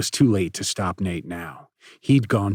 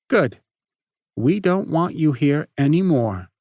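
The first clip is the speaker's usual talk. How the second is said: loud, cold dismissal; cold hard rejection; 6 semitones higher, 5 dB louder than usual. Acted. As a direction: say it like a door slamming. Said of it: "his voice cold and hard".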